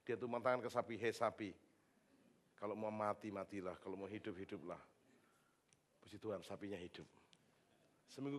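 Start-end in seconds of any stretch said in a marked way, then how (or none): 1.0-4.8 low, flat, fading grumble; grudging prayer. Retold or imitated. Fed-up pastor praying over the sick cow, low grumble. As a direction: pray over it like you couldn't care less.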